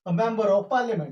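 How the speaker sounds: drawn-out, careful teaching read; slow dictation. Shown as a demonstration. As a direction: say it slowly so students can write. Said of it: "ये मैं आपको समझाना चाह रहा हूं".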